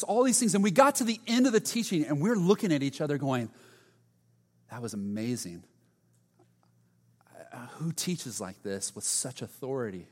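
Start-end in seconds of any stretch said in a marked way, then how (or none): 4.7-10.1 hushed, breathless whisper of awe; awed disciples whispering. Retold or imitated. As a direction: whisper it like you can't believe what you saw.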